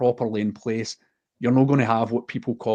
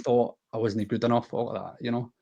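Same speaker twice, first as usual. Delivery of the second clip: emotional; 5 dB quieter than usual. Real, not acted. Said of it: "I'm getting a bit emotional talking about it".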